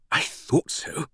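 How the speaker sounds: high, delighted British woman; beaming. A narrator's reading. British fan having her guess confirmed by Langdon, beaming and high. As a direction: say it with a beaming, pleased lilt.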